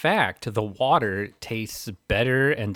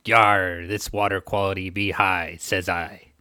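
pirate voice. Retold or imitated. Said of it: "maybe in a pirate voice".

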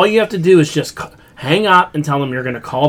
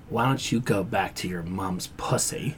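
put-on Indian accent; 8 semitones lower, 15 dB quieter than usual. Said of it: "real quiet in this Indian accent".

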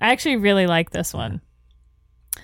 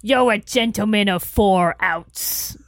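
put-on Cockney accent; 3 semitones lower than usual. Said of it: "in a Cockney accent".

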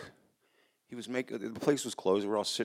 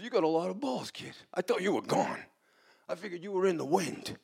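higher-voiced mobster, lightly amused; light mode; 7 semitones higher than usual. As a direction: play the boss suddenly easing up on the kid. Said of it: "in this kind of light mode".

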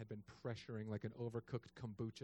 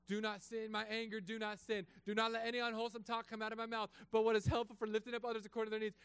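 recited verses; 9 semitones higher than usual. Retold or imitated. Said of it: "going over verses".

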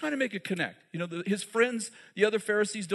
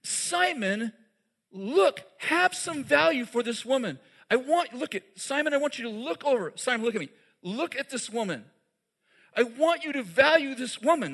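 Jesus pleading with Simon; 4 semitones higher than usual. Retold or imitated. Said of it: "He's saying".

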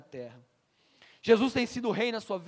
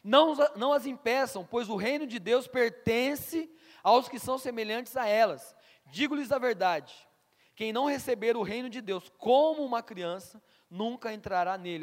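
indignant Jesus; 3 dB louder than usual. Retold or imitated. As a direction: speak as Jesus, firmly rebuking. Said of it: "ficou indignado e lhes disse". (Jesus indignado, voz firme e lenta)

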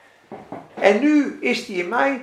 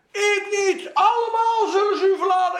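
boastful Peter; 9 semitones higher than usual. Acted. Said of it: "zei hij".

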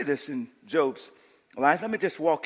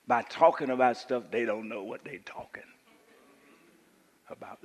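whisper; 3 semitones lower than usual. Real, not acted. Preacher drops voice to a whisper.

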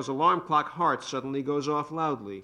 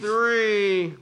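final count; 7 semitones higher, 5 dB louder than usual. Acted. Husband ends the count.

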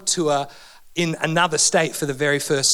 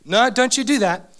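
mum's warning. Retold or imitated. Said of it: "mum would go".

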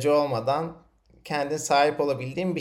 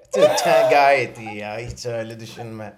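laughing; 4 dB louder than usual. Real, not acted. Reassures the guest while laughing.

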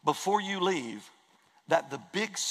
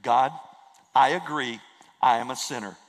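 model prayer; 5 dB louder than usual. Shown as a demonstration. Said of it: "where you simply say".

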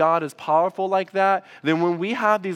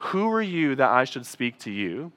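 lower, softer, solemn rebuke; God answering the complaint, lower and softer; 4 semitones lower, 5 dB quieter than usual. Retold or imitated. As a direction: let it fall low and quiet, like a verdict. God's voice retold.

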